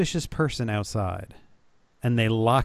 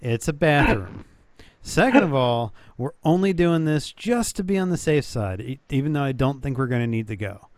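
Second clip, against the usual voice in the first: exasperated correcting; 2 semitones higher than usual. Retold or imitated. Parent correcting kid, retold.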